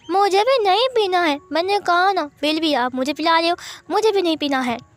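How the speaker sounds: put-on a stubborn six-year-old who won't drink; whiny child. Six-year-old refusing his milk, high and whiny.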